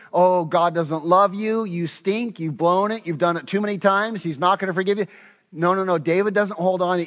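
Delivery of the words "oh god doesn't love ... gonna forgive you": enemy's lying voice. Retold or imitated. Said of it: "what the enemy would like to lie to you".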